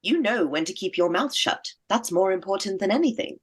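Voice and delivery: put-on prim old courtier voice; lofty aristocratic lady voice; Cookie voice. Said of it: "Do you want me to do my Cookie voice".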